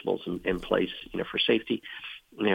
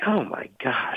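awed whisper; 5 semitones higher, slower than usual. Real, not acted. Hearing a grateful widow's story.

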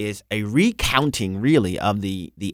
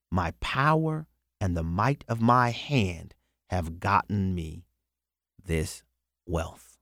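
slow scripture reading. Real, not acted. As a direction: read each phrase deliberately, let the last words sink away. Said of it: "I'm gonna read it slowly".

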